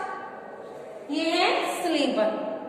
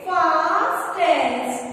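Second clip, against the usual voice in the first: slow spelling-out; much slower than usual. Shown as a demonstration. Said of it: "यहाँ पर हम राइट करेंगे".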